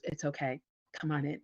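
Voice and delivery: softly imitated reassurance, low and quiet; low, soft voice of a reassuring boss. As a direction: gently coax someone in, as in a retold quote. CEO reassures her in retold talk.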